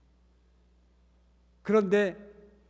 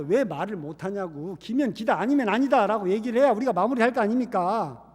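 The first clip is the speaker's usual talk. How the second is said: mock official pressing a pastor to confess; pressing interrogation; 3 semitones higher, 5 dB louder than usual. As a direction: badger him for an answer. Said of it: "그 다그치는 말에".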